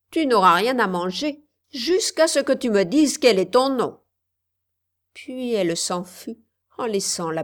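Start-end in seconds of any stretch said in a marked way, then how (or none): 0.1-4.0 a touch higher, firmer witch voice; lightly voiced witch laying down terms; hard old witch, mildly raised; witch threat. Witch threatens the starving girl.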